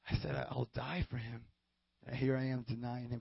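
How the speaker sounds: very hushed, low, halting regret; stricken realization. Acted. Peter after Jesus looks back at him, stricken hush. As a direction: let it sink in, barely voiced.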